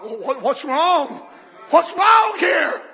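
pretend prayer. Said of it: "ask God".

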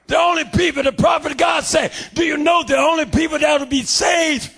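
shouted, driving sermon cadence; fiery preaching. Real, not acted. Preacher shouting his testimony to the church.

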